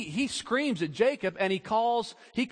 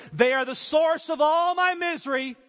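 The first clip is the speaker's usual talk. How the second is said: put-on higher, louder sulky teen complaint; whiny teenager; 8 semitones higher, 4 dB louder than usual. Preacher voicing a teenager blaming parents, whiny and loud.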